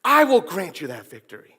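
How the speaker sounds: a hint of a solemn divine voice, slowed on my sword; voice of God. Preacher voicing God promising Joshua victory, lightly solemn. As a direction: speak as God, lightly set apart. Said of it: "it's as if God is saying".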